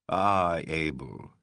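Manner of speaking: a touch of mock sorrow, softening; slight sigh. A narrator's reading. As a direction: let it out on a small sigh. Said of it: "he said with a slight sigh".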